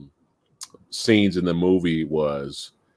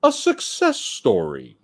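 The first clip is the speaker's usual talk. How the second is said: higher-pitched, mock-grand sarcasm; sarcastic; slower than usual. Real, not acted. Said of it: "I say that in a sarcastic way".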